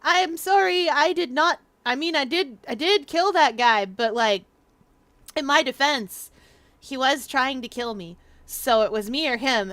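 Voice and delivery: loud, emphatic mock courtroom plea; pleading defendant. Defendant claiming self-defense to the court, mock pleading. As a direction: plead your case with hammed-up insistence. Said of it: "it's a defense ag-, to say".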